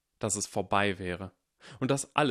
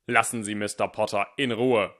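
louder icy order; cutting command; 5 dB louder than usual. Acted. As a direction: slice through the room. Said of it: "scharf genug dass sie Eisen". (eisig scharf)

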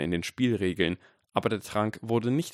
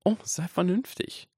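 lightly voiced lecturing boy, high; a hint of higher-pitched schooling tone; Harry Potter; 11 semitones higher than usual. A narrator's reading. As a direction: chide like a teacher in class, pitched up. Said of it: "klang sehr nach Harry Potter, der Unterricht gab".

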